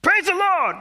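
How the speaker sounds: put-on high, loud Black American church-elder accent; joyful Black American accent heckling from the congregation. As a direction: shout it out like an old Black American man in the pews. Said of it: "I hope you like my black accent".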